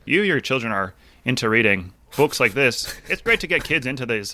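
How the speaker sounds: badly faked British accent drifting into Irish; attempted British accent. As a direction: have a clumsy go at British, landing near Irish. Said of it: "I can't even do a British accent".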